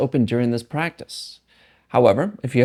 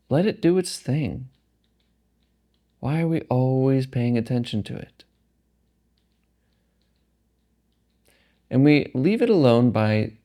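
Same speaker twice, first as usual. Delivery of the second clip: calm meditation guide, phrases set apart by long pauses; guided meditation. Acted. Guiding listeners through a meditation practice, calm and unhurried. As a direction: guide them gently, leaving space between phrases.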